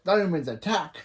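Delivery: rallying shout with a rise at the end; battle cry. Retold or imitated. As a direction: call the team to charge. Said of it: "when Hank said".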